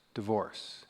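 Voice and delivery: low soft gossip hush; soft half-voiced whisper. Guest at the dinner table hushing the word, half-whispered. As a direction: drop it quiet like a secret. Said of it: "the person whispers".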